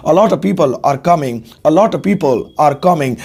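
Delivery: a lot of run together as "a lotta", slowly; slow model sentence with lotta; slow British contraction. Shown as a demonstration. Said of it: "देखो British में कैसे बोलेंगे".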